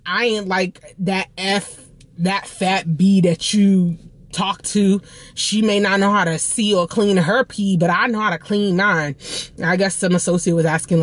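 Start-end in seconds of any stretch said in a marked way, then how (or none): 0.1-9.2 lightly mimicked LA hood woman; a touch of Los Angeles hood accent; imitated hood Los Angeles accent. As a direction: retell her words in a mild LA hood drawl. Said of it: "Los Angeles accent".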